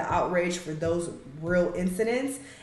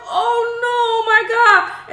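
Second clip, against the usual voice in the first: laughing fake alarm, much higher; mock panic; 14 semitones higher, 7 dB louder, much slower than usual. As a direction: overreact like a fussing parent, giggling. Parent panicking over baby's bump.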